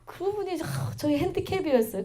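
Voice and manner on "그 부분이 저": ordinary delivery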